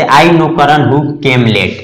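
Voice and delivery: very slow, word by word; slow model sentence. Shown as a demonstration. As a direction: read the example slowly. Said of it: "जैसे".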